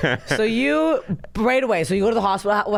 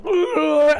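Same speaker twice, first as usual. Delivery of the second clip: louder, higher mock "ugh" of someone airborne; imitated flying yell; 8 semitones higher, 4 dB louder than usual. Co-host picturing the bike crash, imitated yell. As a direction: mimic a body sailing through the air.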